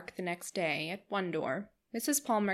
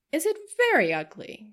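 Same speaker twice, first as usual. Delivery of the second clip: surprised question; 7 semitones higher, 6 dB louder than usual. Acted. Missus Palmer surprised question.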